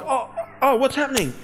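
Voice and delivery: mock startled, high voice; imitated tearful bewilderment. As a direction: act out being overwhelmed, pitch lifted. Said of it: "water just started falling out".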